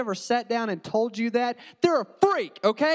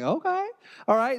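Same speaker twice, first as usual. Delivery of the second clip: innocent okay; 4 semitones higher than usual. Retold or imitated. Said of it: "And I'm like".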